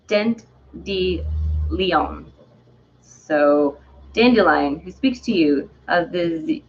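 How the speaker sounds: put-on halting, amateur French accent; lightly hammed French accent; Dandelion's French accent. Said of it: "or have a French accent".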